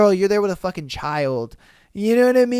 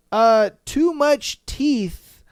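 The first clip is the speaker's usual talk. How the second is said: laughing while reading; 5 semitones higher, 3 dB louder, much slower than usual. Real, not acted.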